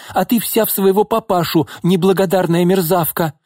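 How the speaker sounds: high-pitched bitter insult; crying out angrily. A narrator's reading. Mother insulting her daughter, crying out angrily. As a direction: lash out at the ungrateful child. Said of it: "выкрикнула Нина".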